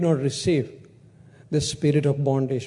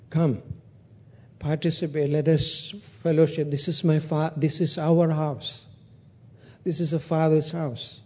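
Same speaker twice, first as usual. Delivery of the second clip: gentle pleading. Acted.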